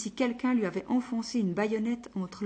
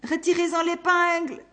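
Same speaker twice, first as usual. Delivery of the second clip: higher, louder pained command; urgent cry to the secretary; 9 semitones higher, 7 dB louder than usual. Acted. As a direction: shout the order through the pain. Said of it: "cria-t-il".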